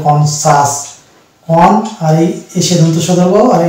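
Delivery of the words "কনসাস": "কনসাস" as "কন" plus "সাস"; silent C. Shown as a demonstration. Teacher applies the rule to the word, "কনসাস" with silent C. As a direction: demonstrate "কনসাস" with no K after "কন". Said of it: "দিয়ে উচ্চারণ হয়ে যাবে".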